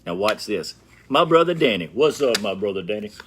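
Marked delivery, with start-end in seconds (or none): 1.1-2.4 calling out higher and louder; loud greeting call. Real, not acted. Greeting his big brother Danny as he walks in, a loud call. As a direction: hail him across the room, bright and loud.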